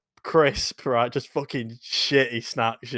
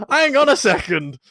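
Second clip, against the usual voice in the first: high, slower puzzled aside; mock puzzled; 12 semitones higher, 6 dB louder than usual. Driver puzzling over the rude customer's message, puzzled. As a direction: pause as if working it out. Acting baffled.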